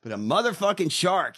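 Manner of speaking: loud, high ranting; laughing comic rant; worked-up rant. Real, not acted. Ranting about sharks.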